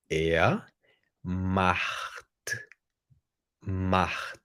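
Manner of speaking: "macht" with the ch rasped like a throaty R; German ch in macht. Shown as a demonstration. Teacher shows students "macht" with a throaty R-like ch. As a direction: say "macht" as if an R replaced the ch. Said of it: "Como se tivesse um R no lugar do C H".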